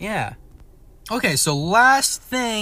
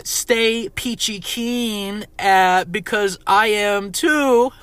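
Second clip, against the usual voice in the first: drawn-out sign-off; 4 semitones higher, much slower than usual. Acted. Podcast sign-off catchphrase.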